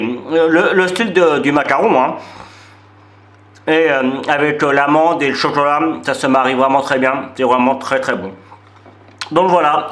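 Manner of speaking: talking through a mouthful of cookie; mouth full. Real, not acted. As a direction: chew and speak with mouth full. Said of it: "j'ai la bouche pleine".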